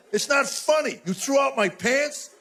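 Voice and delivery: high-pitched comic indignation; indignant protest. Retold or imitated. Husband to laughing wife about his trashed pants, indignant.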